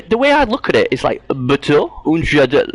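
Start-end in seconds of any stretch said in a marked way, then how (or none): 1.3-2.7 German attempt that comes out French; German turned French. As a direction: read German with a French lilt. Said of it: "That sounds French again".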